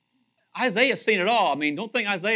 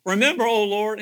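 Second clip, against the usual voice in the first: "Remember, O Lord" cried out louder and higher; pleading cry; 4 semitones higher, 8 dB louder than usual. Shown as a demonstration. King Hezekiah crying to God, loud pleading cry. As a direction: lift "Remember" into a loud plea. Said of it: "he says here".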